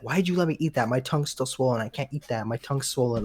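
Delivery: lightly imitated griping; complaining. Child retelling mom's swollen-tongue grievance, lightly complaining. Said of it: "she's complaining".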